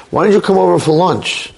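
flirty. Retold or imitated. Woman inviting the neighbor for lunch, mock flirty. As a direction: play at flirting. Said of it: "She starts to flirt with him".

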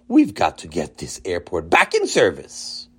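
low, booming mayor voice. Acted. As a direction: speak like a proud big shot.

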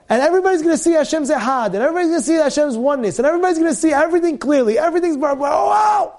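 gushing excitement that ends in a whoop; excited build. Acted. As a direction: pile it on with rising glee. Describing Mashiach days excitedly.

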